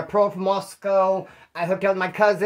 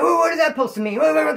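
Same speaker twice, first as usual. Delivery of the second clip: mock angry retort; 9 semitones higher, 4 dB louder than usual. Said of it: "got all mad".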